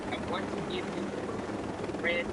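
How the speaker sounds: broken-up connection audio; scrambled voice. Real, not acted. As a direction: voice dropping out on a bad line. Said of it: "you're cutting out, Chief. I can't understand you".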